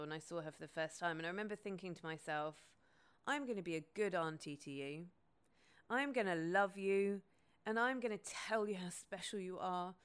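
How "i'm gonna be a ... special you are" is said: emotional. Real, not acted. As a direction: speak from the heart, moved. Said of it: "it's making me emotional".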